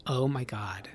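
breathless unvoiced oh my God; whispered Valley girl. Imitating a modern Valley girl, whispered. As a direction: hush it like a gushing Valley girl. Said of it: "now it's just".

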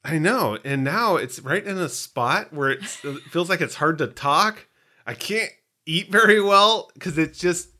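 talking around a bitten tongue; with a sore tongue. Real, not acted. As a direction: speak carefully over a sore tongue. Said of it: "My tongue hurts".

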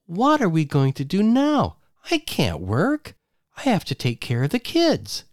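high panicked wife voice; rising screech. Acted. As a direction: voice climbing toward a screech. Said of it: "Her voice rose on a screech".

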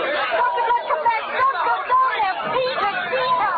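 high, loud pleading calls after him; calling out in alarm. Acted. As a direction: call him back, frightened he'll go.

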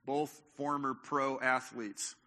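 normal talking voice

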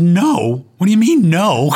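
loud, high incredulous retort; indignant disbelief. Retold or imitated. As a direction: throw her no back at her in disbelief. Retold outraged reply to wife.

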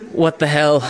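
laughing exasperation. Retold or imitated. Retold frustration, laughing.

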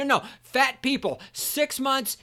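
ordinary talk

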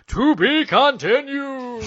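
high, slow announcer tease; dramatic "to be continued". Acted. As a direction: stretch it like a cliffhanger card. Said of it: "and he's like".

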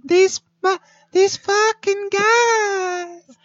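squeaky, drawn-out laughing groan. Real, not acted. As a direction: crack up helplessly. Cracking up at the bit.

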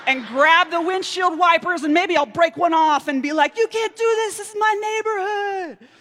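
high, loud hammed-up defiance; imagined yelling at the truck driver; mock-heroic fury. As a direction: play the vigilante to the hilt.

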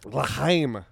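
put-on Jewish accent, slightly throaty, testing it out; tentative try at a Chinese Jewish accent; badly faked Jewish-Chinese accent; attempted Chinese Jewish accent. Shown as a demonstration. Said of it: "imitate a Chinese Jewish accent".

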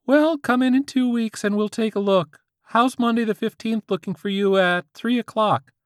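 put-on high squeaky teen voice; squeaky-voiced teen. A narrator's reading. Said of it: "the squeaky-voiced teen".

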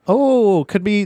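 high, bright mock amazement; mock gasp. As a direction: play up the surprise. Gasps at Christmas caroler idea.

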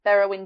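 Berowyn with a B then heroin; careful name pronunciation. Shown as a demonstration. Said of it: "it's like Berowyn".

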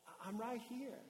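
soft, tender reassurance; quietly comforting; loving father. Acted. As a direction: reassure a child gently. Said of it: "it's a loving father going".

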